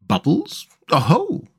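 high, inviting exclamation; bright little call, lifted in pitch; cheerful chirrup. A narrator's reading. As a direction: perk up with cheery interest. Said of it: "chirruped cheerfully in an inviting sort of way".

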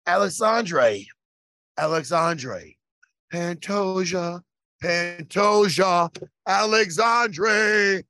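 drawn-out, booming fight-night name call; ring announcer call. Pretend. Calling out the new champion to his co-host, drawn-out announcer style. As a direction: stretch every syllable like the octagon announcer.

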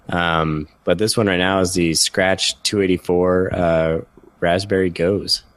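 slightly blocked nose, sick voice; stuffy with a cold. Real, not acted. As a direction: speak like you have a cold. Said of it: "even in my current state of cold".

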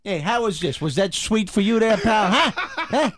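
hammed-up Brooklyn threat; Brooklyn thug. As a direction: taunt the tourist like a street tough. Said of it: "ice pick in the back".

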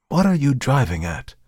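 high, wary shopkeeper; suspicious old dealer. Acted.

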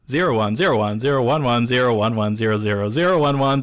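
computer voice reciting binary code; robot saying binary. Pretend. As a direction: chant the zeros and ones like a machine. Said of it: "Did you really spell something out with that?".

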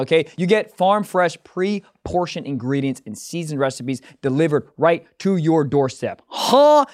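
casual sponsor read with bursts of hype; lightly hyped ad read. Acted. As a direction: sell the meal kit like a buddy, a bit pumped. Reads a HelloFresh ad.

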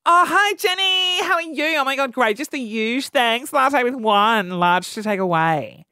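bright, chirpy order at the counter; mock customer order. Customer ordering from Jenny, lightly mock-chirpy. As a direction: play the fussy customer greeting the barista.

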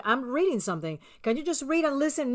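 first calm answer to a nagging husband; patient excuse. Retold or imitated. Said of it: "I'm going".

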